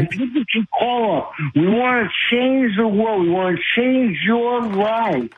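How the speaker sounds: real fervent plea, words tumbling on; worked up. Real, not acted. Caller urging listeners to let him advise them, worked up. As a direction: campaign to the host without letting up. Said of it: "You're all worked up".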